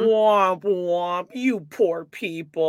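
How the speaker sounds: slow sing-song fake sympathy; mock pity. Podcast host mocking rich homeowners, mock pity. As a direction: tease with a sad-trombone "womp womp".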